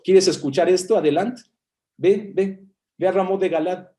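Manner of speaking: mildly mocking go-ahead, pitched a touch up; sarcastic. Prophet telling the king to go to battle, lightly sarcastic. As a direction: act out a sarcastic "be my guest". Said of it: "de manera sarcástica, como diciendo".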